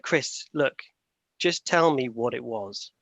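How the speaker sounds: mildly annoyed, slow and firm; retold girlfriend, a touch of impatience, spelling it out slowly; a bit angry. Girlfriend pressing Chris about the roadkill, mildly annoyed and slow. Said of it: "she started getting a bit angry".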